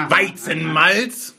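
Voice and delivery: very slow, stretched word; drawn out. Shown as a demonstration. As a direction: stretch every syllable. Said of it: "die fett gedruckt sind, schreien".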